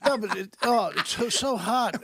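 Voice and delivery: chewing gum while speaking; mouth full. Real, not acted. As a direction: talk through a mouthful of gum. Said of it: "It sounds like you covered a mouse with mayonnaise".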